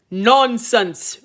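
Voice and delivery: a hint of a scoffing king; dismissive king. King dismissing his son, mild scoffing king. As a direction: scoff it off royally. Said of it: "replied his royal highness".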